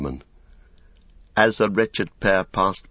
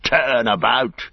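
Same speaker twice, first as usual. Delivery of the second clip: louder, higher, drawn-out command; shouted order; 5 semitones higher, 5 dB louder, slower than usual. Acted. Saruman orders his beaten servant round, shouting.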